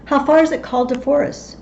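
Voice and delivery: a mild call on the road; lightly voiced Banquo. Banquo asks Macbeth on the heath, lightly voiced.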